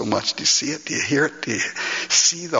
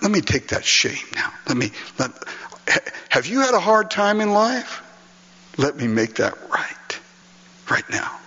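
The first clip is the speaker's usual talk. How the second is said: tender Jesus voice; 3 semitones higher than usual. Acted. Jesus comforting a tearful believer, gentle and tender. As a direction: comfort them like wiping a tear.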